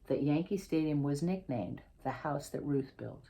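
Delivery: picture-book reading, lively and clear; reading to children. Acted. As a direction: read the story to a class of kids. Author reads picture book aloud.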